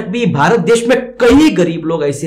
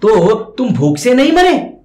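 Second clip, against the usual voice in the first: slow, higher, louder disbelieving question; doubting Yamraj; 5 semitones higher, 4 dB louder than usual. Acted. Yamraj questioning the ghost, incredulous. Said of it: "फिर यमराज प्रश्न क्या कर रहे".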